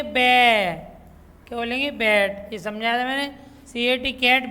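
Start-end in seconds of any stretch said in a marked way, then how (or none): 0.0-0.9 "बै" as the first blended sound of bat, stressed; "बै" said slowly as the start of bat; blended phonics sound. Shown as a demonstration. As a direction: build "बै" from b plus short a. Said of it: "बी ए टी क्या बोलेंगे".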